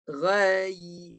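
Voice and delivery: "Ghai" drawn out to a clear closed y. Shown as a demonstration. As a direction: push mid-tongue up at the end of "Ghai". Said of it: "Ha, naik atas".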